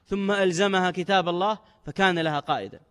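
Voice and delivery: ordinary talk, nothing marked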